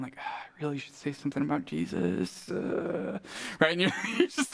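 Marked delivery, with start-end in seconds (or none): 0.2-3.2 soft, low reluctant mumble to yourself; acted nagging thought, held back quietly; hesitant inner thought. Believer working up to witnessing, hesitant. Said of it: "in the back of your mind".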